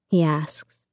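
close, breathy whisper. A narrator's reading. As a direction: whisper it right against the cheek. Feeling each of his words land on my cheek.

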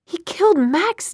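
slow, high-pitched reproach; anguished accusation. A narrator's reading. Clary confronting Jace about Max's death, accusing.

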